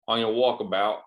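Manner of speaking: put-on a weak stab at an Australian accent on walkabout; bad Australian accent. Retelling the hostel staff in a bad Australian accent. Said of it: "I don't think that's a good accent".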